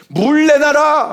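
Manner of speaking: loud, drawn-out, high-pitched demand; riotous demand. Acted. Thirsty Israelites rioting against Moses for water, loud angry demand. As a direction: shout it out like a rebellious crowd, stretched slowly. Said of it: "막 폭동을 일으켰었던".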